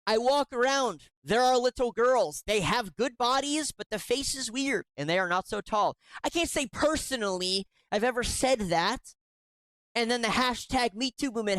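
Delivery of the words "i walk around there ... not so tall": mock email quote. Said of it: "I've never said".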